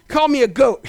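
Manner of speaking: quick, lightly amused mock protest; mock complaint. Listener who mishears the message, quick mock complaint. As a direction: toss it out as a listener's grumble.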